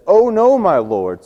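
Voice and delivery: alarmed cry. Acted. Servant sees surrounding army.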